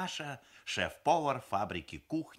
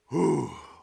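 high, loud puffed-out "whew"; catching his breath; 7 semitones higher, 10 dB louder than usual. A narrator's reading. Papa recovering from his endless sentence, catching breath. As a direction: puff out after a long struggle. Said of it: "он перевёл дух".

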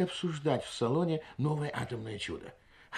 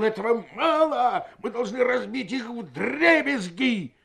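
higher, louder, slow emphatic demand; fierce demand; 10 semitones higher, 4 dB louder, slower than usual. A narrator's reading. Medani Bey urges the guests on, loud and slow. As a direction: push the crowd to smash them.

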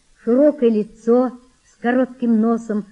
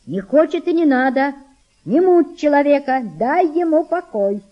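mother's voice; 6 semitones higher, 5 dB louder than usual. Acted. Reply shouted from the boat.

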